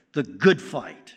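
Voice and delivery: good held slow and firm; the good fight with good weighted; stress on good. Shown as a demonstration. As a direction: press on good, slowly. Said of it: "I would emphasize the word good".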